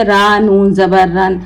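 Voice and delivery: letter by letter, slowed, naming each mark; slow demo of the wrong way to read; spelled-out reading. Shown as a demonstration. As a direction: spell it out laboriously like a beginner. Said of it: "इस तरीके से मत पढ़े".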